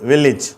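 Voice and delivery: வில்லேஜ் said "VIL-lij"; short i pronunciation. Shown as a demonstration. Teacher models the example word, short-vowel demo. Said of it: "ஈ அப்படிங்கிற உச்சரிப்பு கிடைக்குது".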